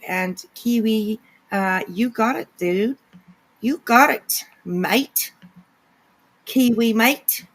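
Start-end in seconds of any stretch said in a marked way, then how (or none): 3.6-5.3 playful mock New Zealand accent, leaning on MATE; hammed-up Kiwi "mate"; bad Kiwi accent. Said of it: "doing a really bad accent". 6.5-7.5 slow, drawn-out mock Kiwi accent; playful fake Kiwi twang; bad Kiwi accent. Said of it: "I probably am doing a really bad accent".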